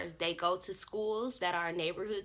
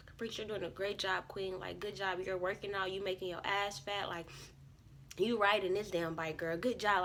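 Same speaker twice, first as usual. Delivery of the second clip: soft self pep talk; 3 dB quieter than usual. Retold or imitated. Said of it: "I was literally talking myself up".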